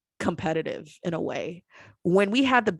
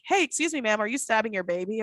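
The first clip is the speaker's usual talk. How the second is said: concerned neighbour; 5 semitones higher, faster than usual. Retold or imitated. Imagined neighbour at the door.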